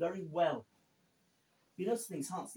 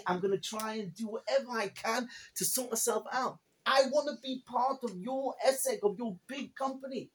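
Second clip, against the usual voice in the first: pleading prayer; 3 semitones higher than usual. Retold or imitated. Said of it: "turn to the Almighty and say".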